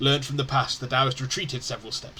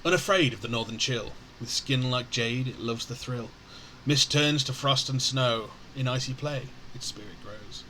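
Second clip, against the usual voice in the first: verse recitation. A narrator's reading. Narrator introduces a creature in verse, measured recitation. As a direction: recite it line by line, unhurried.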